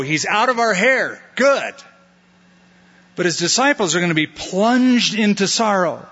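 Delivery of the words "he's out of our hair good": high, gloating relief; the world glad to be rid of him; mild mock gloat; smug world. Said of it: "the world is gonna go".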